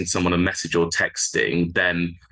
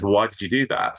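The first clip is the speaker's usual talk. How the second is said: accusing tone; 2 semitones higher than usual. Shown as a demonstration. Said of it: "with that sort of intonation".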